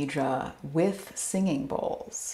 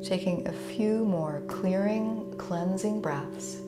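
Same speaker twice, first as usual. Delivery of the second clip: calm yoga nidra guidance with long pauses; gentle meditation teacher's delivery; guided meditation. Real, not acted. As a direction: ease listeners into rest, unhurried, leaving space between phrases. Leads yoga nidra relaxation.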